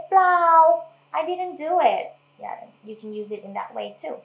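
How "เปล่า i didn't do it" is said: "เปล่า" tossed up high in quick denial; denying. Shown as a demonstration. Teacher acting out a denial to an accusation. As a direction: brush off the accusation. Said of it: "when someone asks you, you did something".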